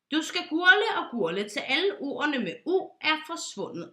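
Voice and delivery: stern lecture. Acted. Pilot ordering Johnson to gargle, loudly. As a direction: drive it home.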